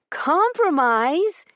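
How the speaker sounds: slow, scornful echo of the word; bitter disbelief. A narrator's reading. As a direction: spit the word back in disbelief. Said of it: "She gave a bitter laugh".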